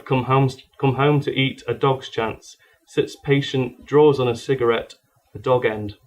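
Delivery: short rhythmic phrases of spoken-word poetry; poetry recitation. Acted. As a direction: punch out each phrase as a line of verse. Reads narrative dog poem.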